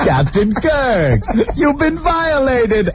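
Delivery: slow, hammed-up dramatic lament; slow and high, mock Shatner gravity.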